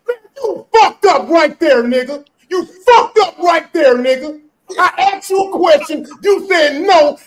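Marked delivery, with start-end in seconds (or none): 0.1-2.2 loud, drawn-out taunt; gleeful gotcha. Real, not acted. Taunting his friend on the panel, loud and slow. 2.5-4.4 louder, slower sing-song taunt; gleeful gotcha. Real, not acted. Rubbing it in to the friend who slipped, slow sing-song taunt.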